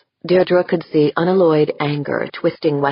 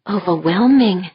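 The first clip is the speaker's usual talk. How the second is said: put-on little girl frightened; 2 semitones higher than usual. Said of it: "in a little girl's frightened voice".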